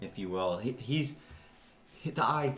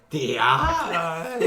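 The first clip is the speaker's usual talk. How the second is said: reverent ogre cry; 5 semitones higher, 4 dB louder than usual. Acted. Ogre character chanting devotion.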